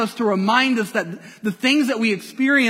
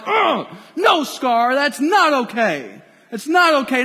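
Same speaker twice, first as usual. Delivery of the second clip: higher and louder, hammed-up protest; mock outrage; 4 semitones higher, 3 dB louder than usual. Audience reacting to Mufasa's death, loud mock outrage. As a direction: cry out at the screen in mock dismay. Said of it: "We're like".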